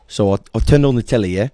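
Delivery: casual British chat, rising yeah; imitated British. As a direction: mimic a British storyteller. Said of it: "I like when British people say".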